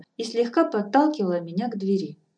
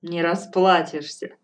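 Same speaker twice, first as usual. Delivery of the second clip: cheerful; 6 dB louder than usual. Acted. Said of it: "весело сказала старуха".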